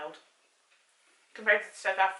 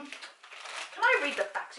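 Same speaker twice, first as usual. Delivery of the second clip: drawn-out slow plea with a higher voice; pleading; 6 semitones higher, much slower than usual. Real, not acted. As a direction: beg to be allowed to read. Kid pleading to read.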